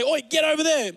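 hammed-up Australian-style shout at a horse; rough yell at horses. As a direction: bark it at the horse like an angry miner. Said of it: "They used to swear at them".

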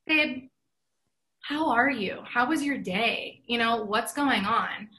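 slow, caring question to a partner; retold gentle check-in, taking it slowly; calm check-in. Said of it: "started to get a little worked up, and I stopped".

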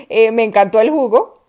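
bright, over-sweet put-on praise; polite fib. A guest lying to the host about the juice, over-sweet. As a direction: gush a little too much. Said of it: "no puedes decir".

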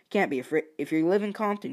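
ordinary delivery

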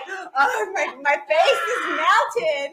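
slow, laughing half-shout of envy; pretending his face melted, laughing; laughing mock awe. To the hosts about the beach video, a slow laughing mock shout. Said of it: "I'm over here like".

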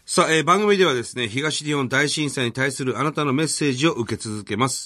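lifted, energetic programme announcement; radio announcer. Real, not acted. Host tells listeners where to send messages, radio announcer read-out. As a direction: announce the mailing details out to listeners.

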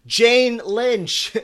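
loud, high mock yell at a contestant; imitated yell. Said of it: "she yells at him".

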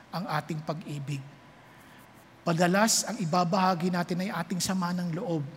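gentle altar call. Acted. Altar call, soft low delivery. (mahinahon at mababang panawagan)

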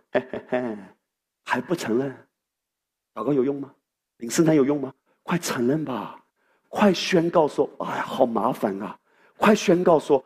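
a hint of a sly, mocking devil; low and sneering, egging the listener on; devil's taunting voice. The pastor voices the devil taunting a struggling believer, sly and mocking. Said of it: "魔鬼说".

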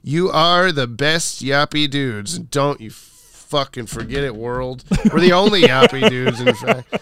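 slow, menacing mock threat; mock aggressive. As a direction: lean into it like a tough guy. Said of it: "animosity you had there".

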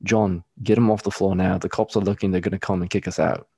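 lightly imitated British trainer; British accent. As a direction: put a British accent on the mentor's warning. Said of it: "That accent you just did".

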